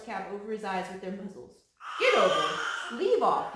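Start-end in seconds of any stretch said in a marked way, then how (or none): 2.0-3.5 loud, sharp shout at the horses; crying out. Acted. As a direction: yell them off, louder. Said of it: "he cried".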